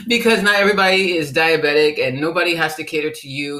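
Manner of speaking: usual speaking voice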